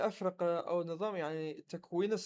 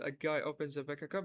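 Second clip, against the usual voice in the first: slow model line; 2 semitones lower, much slower than usual. Shown as a demonstration. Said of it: "نقول".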